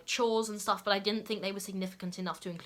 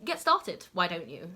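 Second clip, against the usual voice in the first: mock scolding; slower than usual. Playful mock scolding of viewers who slack after finishing early. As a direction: chide the viewer to get back to work. Nudging viewers to keep working.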